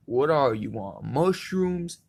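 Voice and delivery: mildly mock-incredulous; incredulous question. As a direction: voice jumps high on mushrooms. Retold worker's incredulous question.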